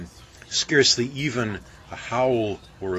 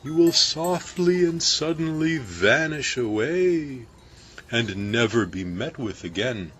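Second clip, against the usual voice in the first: higher, anxious baker voice; mild fearful foreboding; baker's dread; 5 semitones higher, 3 dB louder than usual. A narrator's reading. Baker confessing his dread to crew, mildly anxious.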